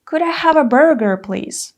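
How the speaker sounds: courteous order; polite request. Shown as a demonstration. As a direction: ask nicely. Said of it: "you can say".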